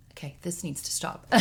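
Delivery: soft, pulling herself together; composing herself. Real, not acted. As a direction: hush it, stopping the tears. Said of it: "I'm gonna tear up right now".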